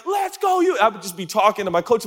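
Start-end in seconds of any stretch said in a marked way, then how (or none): 0.1-0.8 mock taunt. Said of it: "I would be like".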